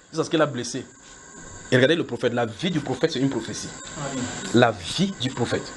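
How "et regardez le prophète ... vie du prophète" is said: normal talking voice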